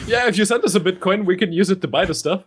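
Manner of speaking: quick, laughing repeat of the joke. Real, not acted. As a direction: laugh through it.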